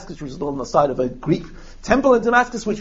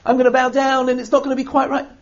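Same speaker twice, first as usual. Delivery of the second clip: higher, hesitant plea with a hint of nerves; nervous, hesitant; 7 semitones higher than usual. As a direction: sound like a worried man asking the rabbi's leave. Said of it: "he's nervous. He's hesitant".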